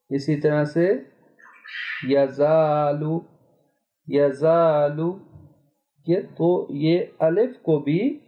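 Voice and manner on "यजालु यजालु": यजालु slow, the aa thin and light; fine Quranic alif. Shown as a demonstration. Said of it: "हम इसको बारीक पढ़ें". (बारीक अलिफ से यजालु)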